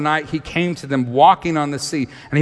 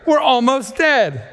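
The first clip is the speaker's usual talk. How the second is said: panicked disciples; 11 semitones higher than usual. Retold or imitated. Disciples seeing a ghost on the sea, mock high panic. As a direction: ham up the terror of the disciples. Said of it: "They go".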